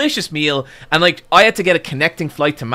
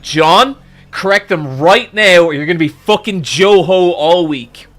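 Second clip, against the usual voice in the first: loud, forceful order to himself; urgent self-scolding; 3 semitones higher, 8 dB louder than usual. Retold or imitated. Guest telling himself to correct his hosts, loudly urgent. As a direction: hammer it out, urgent and emphatic.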